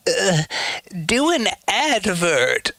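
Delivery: high, drawn-out mimicry of the platform; slow, high-pitched put-on demand; mock ad demand. Streamer imitates Twitch demanding an ad, mock demand. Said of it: "And then it's like".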